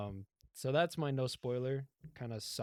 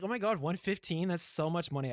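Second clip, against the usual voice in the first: mildly hammed-up dismay, pitched up; mock disbelief; 6 semitones higher than usual. Car owner hears the drop fee, mock disbelief. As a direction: imitate a shocked customer, higher.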